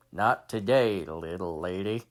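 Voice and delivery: cool gunslinger reassuring a lady; cowboy hero. Acted. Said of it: "it was like a guy on a horse".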